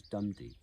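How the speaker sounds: dum-dee with strong DUM, weak dee; trochaic stress. Shown as a demonstration. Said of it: "as opposed to a trochaic rhythm".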